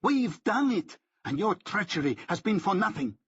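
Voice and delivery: high gloating cry; triumphant. A narrator's reading. Benjamin gloats over Rick's treachery, high and jubilant. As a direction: crow with jeering triumph.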